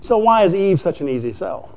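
ordinary delivery

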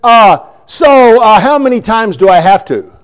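a hint of a dorky kid in class; half-hearted nerdy whine. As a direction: lightly play the dork at the back asking. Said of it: "the dork in the back goes".

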